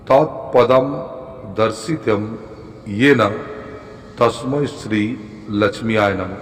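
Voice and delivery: very slow, spaced-out mantra recital; drawn-out syllables, dictation pace; repeating for learners. Shown as a demonstration. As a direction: recite slowly with long breaks between phrases. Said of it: "আর একবার বলছি".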